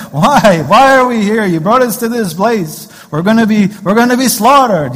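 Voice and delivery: loud, high New York Jewish kvetching; New York Jewish accent. Acted. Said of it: "the New York Jewish accent in here".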